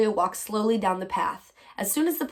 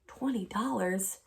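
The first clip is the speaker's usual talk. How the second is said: softer and slow, taken aback; stunned question; 6 dB quieter, slower than usual. Acted. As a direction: let the sum sink in quietly. Amelia stunned by the offer.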